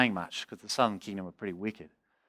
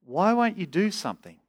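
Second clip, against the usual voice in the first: higher, pained appeal; crying out to God; 5 semitones higher than usual. Acted. Preacher voices God's suffering people asking why, pleading. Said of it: "And we cry out to God".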